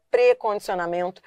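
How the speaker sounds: "precondicionamento" with closed prê, unstressed; correct weak prefix. Shown as a demonstration. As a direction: say "precondicionamento" as one word, closed e. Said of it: "o problema tá na pronúncia".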